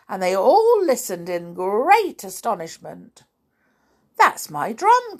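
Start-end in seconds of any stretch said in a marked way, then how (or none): 4.2-5.2 high, loud exclamation; little boy's cry. Acted. Little boy hears his drum, crying out. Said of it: "cried the little boy".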